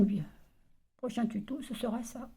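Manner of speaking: cracking, strained voice. Real, not acted. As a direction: voice breaking from a sore throat. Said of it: "Désolée, j'ai la gorge".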